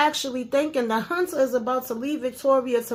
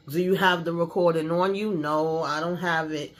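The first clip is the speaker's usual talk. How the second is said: lower voiced dialogue; 7 semitones lower than usual. Father and reporter voices.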